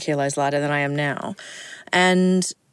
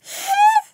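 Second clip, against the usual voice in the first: voice cracking; 4 dB louder than usual. Retold or imitated. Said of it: "his voice just sort of went".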